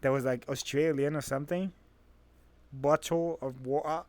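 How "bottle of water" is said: put-on "Bottle of water" slowly, copying the friend's accent; questioning copy of an accent on "Bottle of water"; imitated accent. Echoing the friend's odd accent back, imitated accent. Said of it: "what was that accent?".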